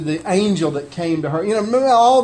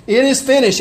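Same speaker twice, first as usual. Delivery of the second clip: higher, louder triumphant call; victory cry; 6 semitones higher, 3 dB louder than usual. Acted. Preacher voices Christ's triumphant last cry, higher and louder. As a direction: proclaim it as a triumph. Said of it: "We hear the victory cry".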